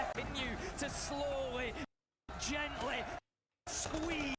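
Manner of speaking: slow, drawn-out commentary; dramatic caster call. Retold or imitated. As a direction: savour each word like a caster. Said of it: "I like that".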